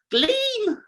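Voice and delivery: "Gleam!" yelped in a very high voice; high squeal. Shown as a demonstration. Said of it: "Never get that right".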